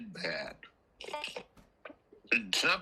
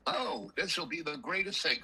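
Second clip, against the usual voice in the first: higher-pitched imitation of eager delight; mildly hammed-up enthusiasm; mock glee; 5 semitones higher than usual. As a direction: play up being thrilled about the chore. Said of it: "with a glee".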